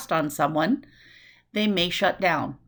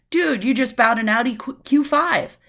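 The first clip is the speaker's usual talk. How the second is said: higher and louder, impressed; impressed friend; 4 semitones higher, 4 dB louder than usual. Acted. Friend gushing at a new car, louder and higher.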